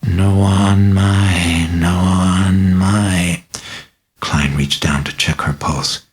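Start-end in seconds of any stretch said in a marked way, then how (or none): 0.0-3.4 very slow, eerie incantation; guttural mutter. Acted. Possessed girl mutters gibberish, very slow and eerie. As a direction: mutter strange words as if not yourself. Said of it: "mutter ... in an oddly guttural tone".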